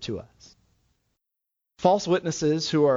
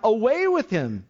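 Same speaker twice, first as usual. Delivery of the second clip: slightly raised, mild mob cry; 4 semitones higher than usual. Acted. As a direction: cry out with restraint as the crowd. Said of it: "crying out".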